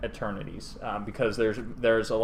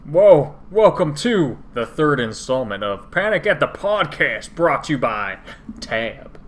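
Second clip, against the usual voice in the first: loud, higher show opener; podcast intro hype; 3 semitones higher, 6 dB louder than usual. Real, not acted. Host kicking off the podcast episode, hyped loud opener. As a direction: open the show with a burst.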